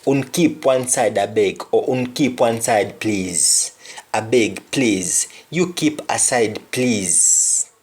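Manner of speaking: "Un keep one side, I beg" in a Jamaican Patois lilt; a polite Patois request. Shown as a demonstration. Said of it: "the example would be".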